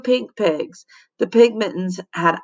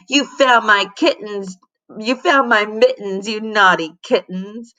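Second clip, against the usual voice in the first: purring; 2 semitones higher than usual. Acted. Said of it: "the librarian purred".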